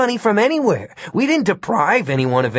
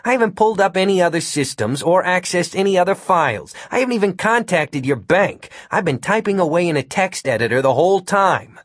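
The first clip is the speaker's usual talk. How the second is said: higher-pitched, insistent self-defence; indignant protest; 7 semitones higher than usual. A narrator's reading. Accused hacker defends himself to agents, indignant protest. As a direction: protest your innocence in a raised pitch.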